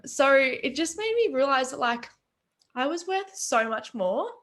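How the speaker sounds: choked up while telling your own story; getting emotional. Real, not acted. Speaker apologising for tearing up, emotional. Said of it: "I don't know why I'm getting emotional".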